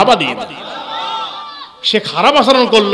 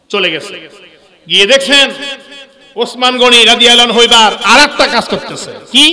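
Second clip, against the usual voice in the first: ordinary delivery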